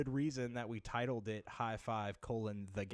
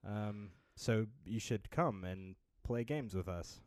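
slow, stiff robotic announcer; robot radio announcer; 3 semitones lower than usual. Shown as a demonstration. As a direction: read it like a deadpan radio robot. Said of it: "the robot d-, radio announcer voice".

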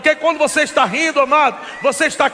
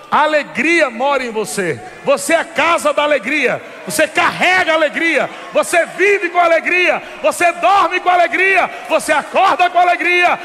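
building preaching; 3 semitones higher than usual. Acted. Preaching builds to full force.

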